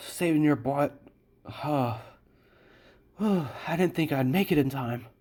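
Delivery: put-on, out-of-breath heavy breathing. Voicing a character who just arrived in time: acting out of breath. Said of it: "kinda breathing heavy".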